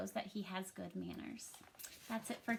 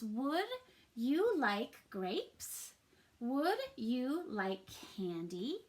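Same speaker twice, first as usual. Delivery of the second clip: put-on slow, careful read-aloud for kids; much slower than usual. Shown as a demonstration. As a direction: read each word slowly to the class. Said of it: "So let's read these".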